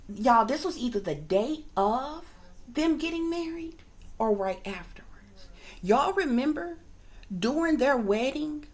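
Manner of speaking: whispered aside to the viewers; gossip whisper. Real, not acted. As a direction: lean in and whisper the secret.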